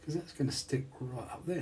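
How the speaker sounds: unvoiced whisper to self. Real, not acted. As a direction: whisper it under your breath. Muttering to self while assembling.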